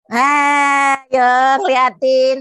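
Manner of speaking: loud, slowed startling shout; sudden shout. Acted. Teacher shouts at the puppet to startle it, sudden loud yell. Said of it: "Kaget aku".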